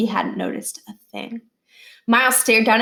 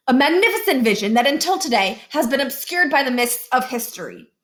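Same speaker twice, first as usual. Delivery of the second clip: grandiose presenter; 5 semitones higher than usual. Acted.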